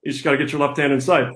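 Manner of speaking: lightly voiced football coach, folksy and halting; a hint of the old coach rambling with lots of "you know"; light imitation of a head coach talking to press; Kirk Ferentz impression. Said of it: "recreate for us in his voice".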